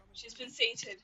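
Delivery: whispered, breathy relief; soft unvoiced whisper, the cat is finally fed. Real, not acted. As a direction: whisper so the cat stays calm. Whispered after feeding cat.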